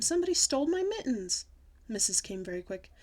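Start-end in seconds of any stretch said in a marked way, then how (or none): 0.0-1.5 high, loud cry of outrage; hollered alarm. A narrator's reading. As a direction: holler the theft to everyone around. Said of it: "I hollered".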